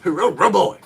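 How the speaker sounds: high, loud squeal of Robo; excited high call; high cheer. Shown as a demonstration. Cartoon cheer attempts.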